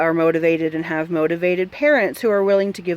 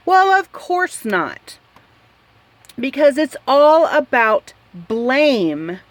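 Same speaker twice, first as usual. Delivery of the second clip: sarcastic scoff; 4 semitones higher, slower than usual. Real, not acted. Sarcastic retort to quoted claim.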